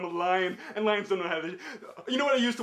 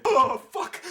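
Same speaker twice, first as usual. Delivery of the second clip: sudden shout; 3 semitones higher, 6 dB louder than usual. Pretend. Bursts out swearing after mumbling.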